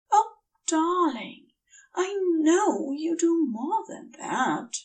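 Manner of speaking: an angel choking up as he thanks his friend; tearful Aziraphale. Acted.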